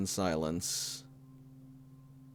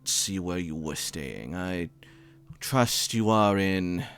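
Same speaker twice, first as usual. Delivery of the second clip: put-on older man voice. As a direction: leave a fond, hesitant message. GM plays Tanaka's voicemail.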